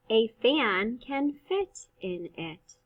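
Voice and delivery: slow, smooth read of the whole sentence; fast way. Shown as a demonstration. Teacher reading the fast way for first graders. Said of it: "read this the fast way".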